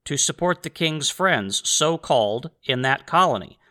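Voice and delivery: slow, measured letter reading; reading aloud. Acted. Host reads a colonial-era letter to listeners, measured reading. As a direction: read the quote out slowly and deliberately.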